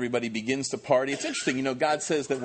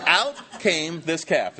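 mocking quote; 5 semitones higher, 6 dB louder, slower than usual. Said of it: "is the quote".

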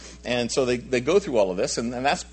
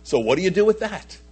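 fervent challenge; 8 semitones higher, 4 dB louder than usual. Retold or imitated. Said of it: "he says".

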